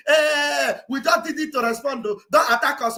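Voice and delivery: mock pleading Israel. Speaker mocks Israel begging not to be attacked, hammed-up plea. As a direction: beg like a frightened nation. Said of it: "They were crying".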